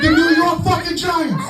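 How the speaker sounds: high, slow, exasperated cry; exasperated correction. Retold or imitated. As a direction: spell it out to her in disbelief.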